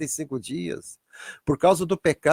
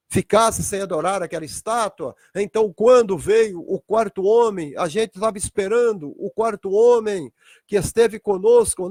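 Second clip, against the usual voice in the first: put-on young men answering; 3 semitones higher than usual. Three young men answer Jesus.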